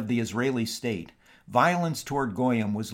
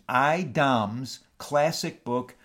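dictating; 2 semitones higher than usual. Shown as a demonstration. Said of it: "that's capital I period".

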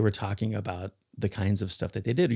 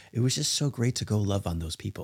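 mocking gush; 3 dB quieter than usual. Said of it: "a phrase that I particularly hate".

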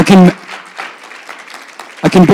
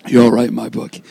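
lower, softer, tender repeat; soft and warm; 4 semitones lower, 5 dB quieter, faster than usual. Shown as a demonstration. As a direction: say it again gently to the kids.

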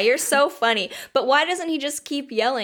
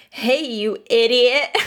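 louder, slow taunting call; mock yell; 6 dB louder, slower than usual. Odysseus jeering at the Cyclops from the boat, mock yell. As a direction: jeer it across the water, slowly. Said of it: "he yells back".

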